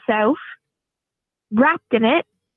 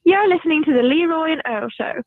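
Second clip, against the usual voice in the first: Milton Keynes English accent. Shown as a demonstration. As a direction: read the show ident as someone from Milton Keynes, England. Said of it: "now try it in your English accent".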